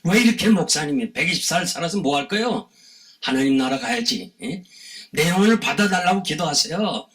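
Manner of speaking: retold shouting. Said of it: "귀에다 대고 막 소리 지르면서". (귀에 대고 다그치듯 높인 목소리)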